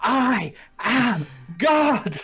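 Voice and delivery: loud shouting, crying out. Voicing a sword that cries out after a kill: sword crying out. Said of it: "you just hear your sword cry out".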